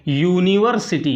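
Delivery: "यूनिवर्सिटी" syllable by syllable, opening on "yoo"; careful model pronunciation. Shown as a demonstration. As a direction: sound out "यूनिवर्सिटी" for learners. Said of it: "ध्यान से इसको पढ़िए और इसका pronunciation".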